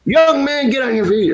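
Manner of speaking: high, loud mock cop command; stern sergeant. Retelling the sergeant ordering him up, mock stern.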